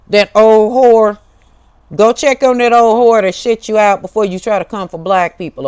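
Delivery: loud, high furious outburst; angry loud insult. Real, not acted. Snapping at critics in her comments, loud and angry. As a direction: blast it at the commenters.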